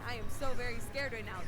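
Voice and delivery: deadpan sarcastic claim of fear. Acted. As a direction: say it dry and sarcastic. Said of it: "That is sarcasm".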